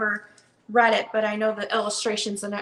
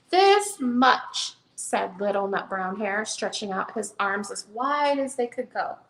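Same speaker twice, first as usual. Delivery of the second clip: gentle storybook read-aloud; reading to children. Acted. Seller reads the hare book to viewers, storytelling voice. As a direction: read it like bedtime for a little one.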